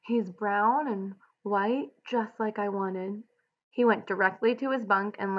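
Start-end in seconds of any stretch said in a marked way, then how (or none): 0.0-3.2 breathless. Acted. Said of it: "Lenny said breathlessly".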